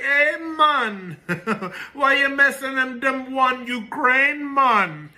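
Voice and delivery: mock politician's voice. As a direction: put on a high, joking voice to mimic her. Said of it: "she's gonna go to Putin and be like".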